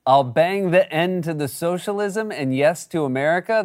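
incredulous reread. Retold or imitated. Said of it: "A what now?".

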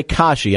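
Kashi said as KAH-shee; correct pronunciation. Shown as a demonstration. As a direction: say Kashi with an open "ah". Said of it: "A lot of people say Kashi, but it is Kashi".

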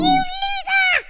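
high laughing shout. Real, not acted. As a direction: cackle out the taunt.

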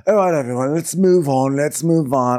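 mock cheerful call to the group; acted peacemaking. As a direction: brightly shoo everyone past the quarrel. Acted peacemaker breaking up quarrel.

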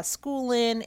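usual speaking voice

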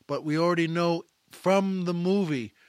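ordinary delivery

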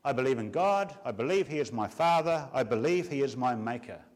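each word set down deliberately. Shown as a demonstration. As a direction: spell the creed out slowly and clearly. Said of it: "I'll say it slower".

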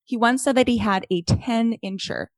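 lively, measured read-aloud delivery; reading a listener email. Real, not acted. Podcast host reads listener's email to co-host, animated read-aloud. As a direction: read out fan mail with emphatic key words.

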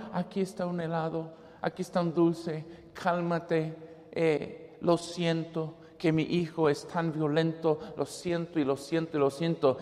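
soft, fast, embarrassed murmur; a mother murmuring sorry to her nephew; hushed apology. Retold or imitated. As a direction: apologize quietly, a bit rushed.

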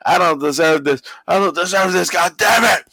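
imitated wrestler's angry yell; mock yelling. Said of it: "Vince is yelling".

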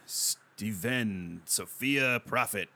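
"Stephen Sophia Prophet" read very slowly, each syllable spelled out; careful, unsure read of "Stephen Sophia Prophet"; careful name reading. Real, not acted. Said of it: "That's, that's how you say it".

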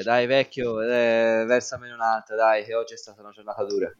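easy, friendly bar talk; chummy, coaxing the old barman; open and friendly. Acted. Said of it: "ma in, in tono amichevole".

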